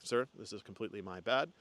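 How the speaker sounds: apologizing to the other driver after a crash, softly calm; calm reassurance. Retold or imitated. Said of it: "and I was just calm".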